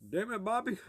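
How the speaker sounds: high-pitched cartoon dad impression; King of the Hill. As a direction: do a cartoon father scolding his boy. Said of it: "King of the Hill, damn it, Bobby guy".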